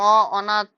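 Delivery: অ in অনাথ said as an open "aw"; natural vowel অ. Shown as a demonstration. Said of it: "অবর্ণের স্বাভাবিক উচ্চারণ হয় একটা".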